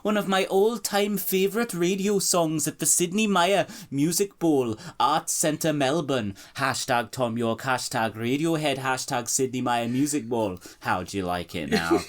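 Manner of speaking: high, hammed-up Australian accent drifting Welsh; Australian accent slipping toward Welsh; bad Australian accent. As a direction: read the post in a failing Australian accent. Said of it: "Your Welsh accent is actually getting worse".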